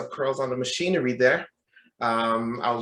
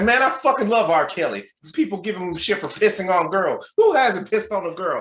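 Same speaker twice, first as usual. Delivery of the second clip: higher-pitched, brash Southern fan; Southern accent; 6 semitones higher, 4 dB louder than usual. Retold or imitated. Gym stranger defends his favorite singer, Southern accent. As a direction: argue boldly in an imitated Southern accent. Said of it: "with Southern accent".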